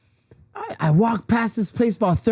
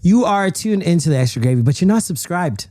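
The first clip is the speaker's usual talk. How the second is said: loud announcer-style plug; podcast plug; 4 dB louder than usual. Acted. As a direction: sell the subscribe pitch.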